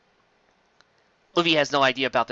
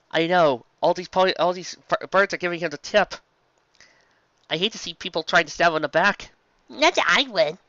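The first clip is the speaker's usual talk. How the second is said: bird voice; 5 semitones higher than usual. Acted. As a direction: crow it out like a smug mail bird.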